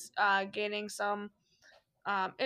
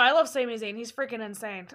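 usual speaking voice

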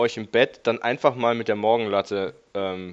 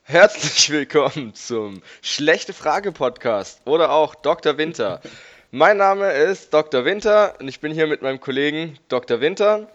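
louder, higher show-opening welcome; podcast intro; 5 semitones higher, 6 dB louder than usual. Acted.

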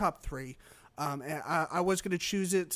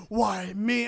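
mock lament, a bit louder; dying security guard; 2 semitones higher, 5 dB louder than usual. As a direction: play a hammed-up guard's death line. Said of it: "they are security guards. It's just".

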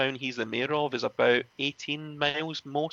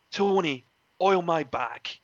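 mock stern order; 5 semitones higher, 4 dB louder, slower than usual. The speaker commanding narrator.

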